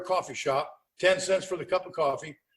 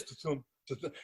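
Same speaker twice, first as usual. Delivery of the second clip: soft mock heartbeat thump; soft mock heartbeat sound; imitating a heartbeat; 6 semitones lower, 12 dB quieter than usual. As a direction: tap out the thump of a heartbeat, much softer. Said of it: "his nose went like this".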